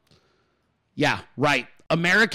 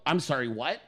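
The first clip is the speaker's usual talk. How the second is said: disbelief; 3 semitones lower, 8 dB quieter than usual. Retold or imitated. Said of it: "you're gonna go".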